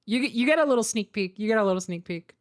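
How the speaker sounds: ordinary talk, nothing marked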